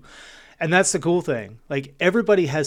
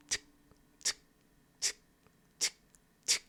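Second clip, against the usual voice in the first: clock ticking; 12 dB quieter than usual. Shown as a demonstration. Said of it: "the ticking of a clock".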